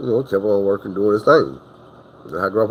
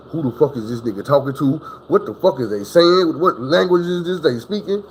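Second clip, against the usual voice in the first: grandma wondering what he's saying, scared and higher; scared whisper-thoughts; 6 semitones higher than usual. Retold or imitated. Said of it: "scared to move".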